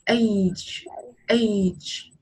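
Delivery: age as the vowel A plus a clear ch; age with final ch sound. Shown as a demonstration. Teacher contrasting similar words for a pupil, age with a final ch. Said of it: "âm ch ở đằng sau".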